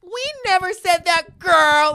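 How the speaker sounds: high, sassy denial, imitated; popping off. Our table to the old man, popping off. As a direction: deny it high and indignant. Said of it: "popping off at him".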